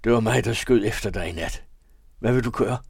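a hint of Halvor's broken, strained voice; broken-voiced confession. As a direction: confess the shot, voice close to cracking. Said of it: "Stemmen var brudt". (brudt stemme, anspændt tilståelse)

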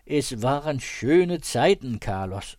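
put-on a slow, swelling cry of old friendship; fond exclamation. Narrator imagines greeting his old friend with a slow exclamation. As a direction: call out the happy old days, slowly. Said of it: "med det udråb".

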